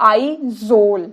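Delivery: Izol said clearly as ee-zol; careful pronunciation. Shown as a demonstration. Teacher shows students how to say Izol, clearly. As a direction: model the word Izol cleanly for students. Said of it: "इसकी pronunciation Izol".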